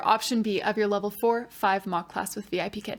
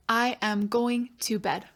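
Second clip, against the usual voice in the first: whispered correction. Shown as a demonstration. Teacher modelling the correction for the pupil, whispered. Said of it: "you can correct".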